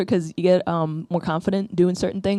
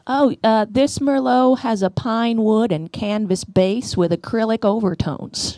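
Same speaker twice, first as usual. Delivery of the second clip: higher, slow pretentious sommelier; mock wine expert; 5 semitones higher, slower than usual. Wine lady describes the Merlot in a higher, slow snooty voice. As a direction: savour every word like a pompous sommelier. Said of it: "the lady goes".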